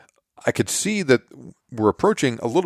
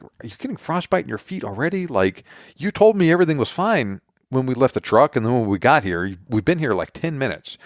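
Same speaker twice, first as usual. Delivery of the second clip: higher, incredulous questioning; exasperated disbelief; 5 semitones higher than usual. Retold or imitated. Dad doubting his son's frostbite claim, exasperated. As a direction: push back in disbelief.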